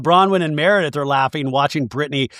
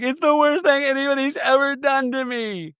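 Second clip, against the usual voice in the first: lightly voiced, much higher wounded Lisa; imitating Lisa; 10 semitones higher than usual. Recapping Lisa to listeners, a mock wounded whine. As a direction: play it up as deeply hurt. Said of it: "And Lisa's like".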